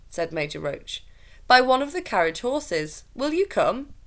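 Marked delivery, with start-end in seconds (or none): 1.5-3.9 officer's voice. A narrator's reading. Roach voiced.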